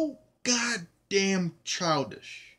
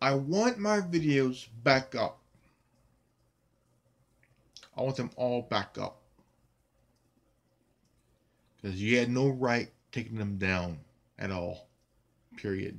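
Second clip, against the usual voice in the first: very angry, low, furious voice; 6 semitones lower than usual. Speaker demands YouTube restore his taken-down videos: very angry. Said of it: "I am very angry".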